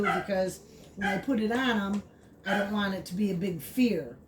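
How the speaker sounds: ordinary talk, nothing marked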